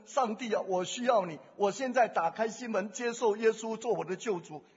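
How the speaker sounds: a model sinner's prayer, said out for the listener; sample prayer. Shown as a demonstration. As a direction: lead the prayer word by word as a pattern. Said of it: "这样这个祷告能不能".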